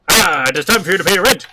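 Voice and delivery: fast sneering landlord; hammed-up villain demanding rent; sneering panto villain. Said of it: "evil landlord comes along".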